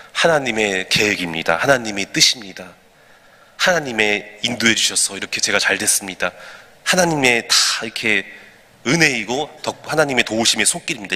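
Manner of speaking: low, subdued acknowledgement of God's help; calm pious acceptance. Acted. Believer crediting God when things go well, calm and low. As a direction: speak as a contented believer, pitched well down.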